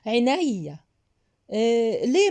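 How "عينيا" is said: sweetly insincere 'gladly'; cold fake compliance. Shown as a demonstration. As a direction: drag it out with a fake smile. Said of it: "ببرود وابتسامة صفرة".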